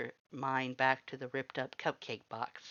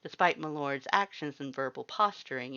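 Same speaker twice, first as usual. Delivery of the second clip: usual speaking voice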